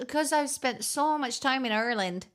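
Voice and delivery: first try at Ireland in mock Irish; lightly faked Irish accent on Ireland; put-on Irish accent. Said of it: "I actually just have a really natural Irish accent".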